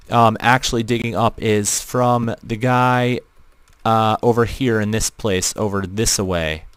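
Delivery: flat robotic voice filter. Real, not acted. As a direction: talk through a robot voice changer. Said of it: "you're questioning why my voice sounds robotic".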